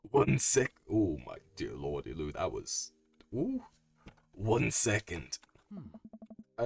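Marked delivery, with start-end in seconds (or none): 0.9-2.9 put-on low, gravelly old smoker voice; raspy voice. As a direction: rasp it out low. Trying Robert's raspy voice.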